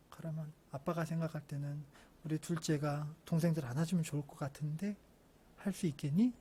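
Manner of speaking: put-on soft, gentle suggestion to a child; calm, slightly hushed parent; quiet fatherly talk. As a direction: coax softly and patiently. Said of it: "제가 조용히 불러서".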